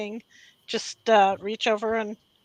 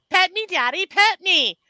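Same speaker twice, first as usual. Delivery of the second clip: higher pleading dog voice; 7 semitones higher, 5 dB louder than usual. Retold or imitated. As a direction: beg like the pet dog. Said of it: "we give them a voice".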